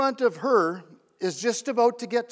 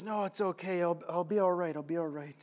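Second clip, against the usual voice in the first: soft, low, modest reassurance; subdued voice, sinking at the end; weary lady declining; 4 semitones lower, 7 dB quieter than usual. Retold or imitated. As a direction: quietly wave off the kind offer. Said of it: "And the lady says".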